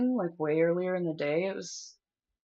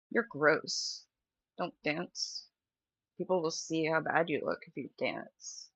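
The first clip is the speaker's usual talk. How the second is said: a hint of a cold inner voice, softer and lower; inner critic voice; 3 semitones lower, 5 dB quieter than usual. Voicing the eating disorder voice in her head, soft and cold. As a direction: murmur it like a nagging voice in your head. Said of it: "that eating disorder voice in the back of my head being like".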